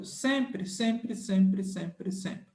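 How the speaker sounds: repeated like an echo dying out; fading repetition. Shown as a demonstration. Teacher drumming a rule into students, fading repetition.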